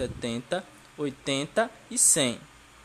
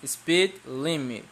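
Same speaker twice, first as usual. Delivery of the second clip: to someone hard of hearing; slower than usual. Shown as a demonstration. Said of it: "Não estou ouvindo vocês repetirem".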